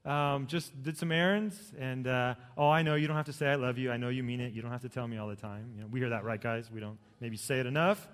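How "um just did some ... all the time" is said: cheery wife greeting. Retold or imitated. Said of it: "she could walk in and say".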